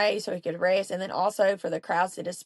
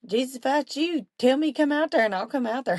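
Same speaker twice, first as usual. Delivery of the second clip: Peter's request; 6 semitones higher than usual. Retold or imitated. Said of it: "who would have thought".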